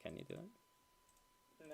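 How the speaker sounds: slow breathy whisper. Real, not acted. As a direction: whisper it slowly to a friend. Hushed aside in stream.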